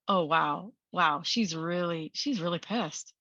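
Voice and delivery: low, slow, wondering self-talk. Acted. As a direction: take it in slowly, voice dropped. Acted quiet noticing of anger.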